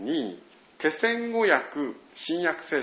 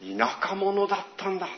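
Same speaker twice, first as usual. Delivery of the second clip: higher-pitched "ah, I get it" moment; retold sudden realization; 5 semitones higher than usual. Preacher recalls learning Jesus was a country man, dawning surprise. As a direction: act out eyes suddenly opening. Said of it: "目が開かれる思いだったんです".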